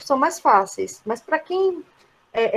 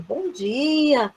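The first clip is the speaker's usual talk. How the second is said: courteous, measured good morning; formal greeting; slower than usual. Shown as a demonstration. Teacher translating a formal greeting for learners, formal. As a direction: greet politely, each phrase falling. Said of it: "Olha quanta formalidade".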